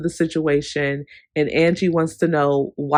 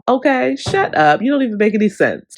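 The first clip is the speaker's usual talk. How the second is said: exasperated dismissal; 5 semitones higher, 3 dB louder than usual. Real, not acted. Vlogger dismissing Heather, exasperated.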